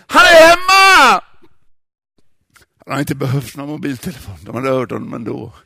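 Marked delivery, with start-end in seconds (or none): 0.1-1.2 high, loud joyful yell down the phone; shout into phone. Acted. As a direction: shout the news into the receiver. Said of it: "skrek han i luren". (glatt skrik i telefonen)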